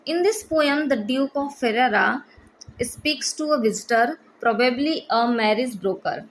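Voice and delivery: slow, even read-aloud of study notes, word by word; slow dictation reading. Shown as a demonstration. Teacher dictating notes to exam students, slow and deliberate. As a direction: dictate each phrase slowly so students can copy.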